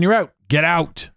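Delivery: theatrical order to leave; mock dismissal. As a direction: play-act throwing someone out. Acts out being expelled.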